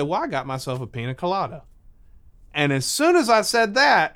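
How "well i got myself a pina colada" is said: quick, softer matter-of-fact reply; understated, composed answer; very calm. Retold or imitated. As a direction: toss it off calmly. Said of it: "I very calmly said".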